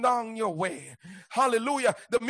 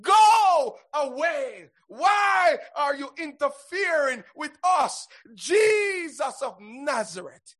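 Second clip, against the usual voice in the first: preacher's acted shout, drawn out; demon crying out. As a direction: cry it out as the threatened evil spirit. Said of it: "cried out shouting".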